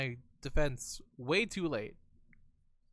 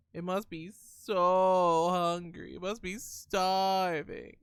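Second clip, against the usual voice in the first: pitying; 4 semitones higher, 3 dB louder, slower than usual. Real, not acted. Pitying the hungry cat.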